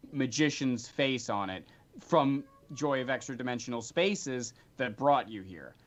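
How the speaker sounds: storyteller describing a find; game master narration. A narrator's reading. Game master sets the scene.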